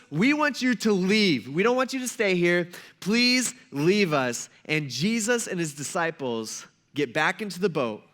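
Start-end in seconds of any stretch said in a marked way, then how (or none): 0.1-4.5 slow, drawn-out mock pleading; slow plea. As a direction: stretch out the request, word by word. Townspeople beg Jesus to leave.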